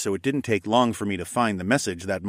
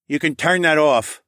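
put-on brash old man voice; 7 semitones higher, 6 dB louder than usual. A narrator's reading. Saul voiced in narration.

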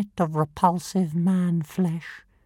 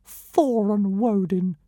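derisive snort. Acted. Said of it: "snorted the creature derisively".

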